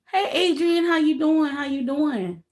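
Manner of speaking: high, lively hello to a viewer; bright greeting. Real, not acted. Greeting a viewer in live chat.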